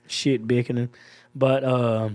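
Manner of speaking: slow, low Georgia drawl; Georgia accent. Shown as a demonstration. Guest describing home to the host, Georgia accent. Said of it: "this is my Georgia accent".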